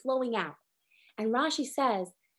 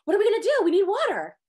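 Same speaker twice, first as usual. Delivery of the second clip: mock panic; faster than usual. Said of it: "They start panicking".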